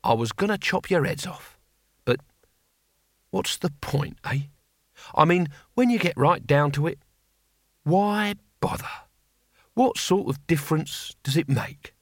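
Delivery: tired and disillusioned, halting with pauses; understated world-weariness; weary. A narrator's reading. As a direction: give up on it all, wearily. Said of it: "voice so suddenly full of weariness".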